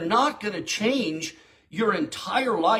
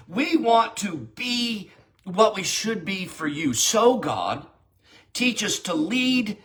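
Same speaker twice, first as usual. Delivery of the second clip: prayer; 2 semitones higher than usual. Shown as a demonstration. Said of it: "I'd say".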